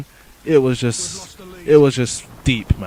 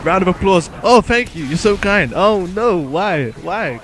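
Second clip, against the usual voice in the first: mock award speech; 5 semitones higher, 5 dB louder, slower than usual. Mock accepting applause.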